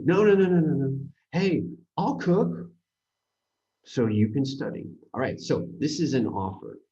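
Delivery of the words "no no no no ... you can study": loud, high rush of nos, then offers gently; insistent no. Retold or imitated. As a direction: overrule her fuss, higher and louder. Insisting on helping.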